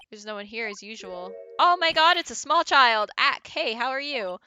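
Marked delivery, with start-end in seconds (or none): 1.6-4.4 loud startled greeting; surprised. Real, not acted. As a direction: caught off guard, louder. Surprised meeting a small child.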